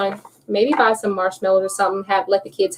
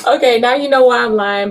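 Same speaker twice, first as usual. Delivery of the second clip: laughing; 5 dB louder than usual. Real, not acted. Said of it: "I'm laughing".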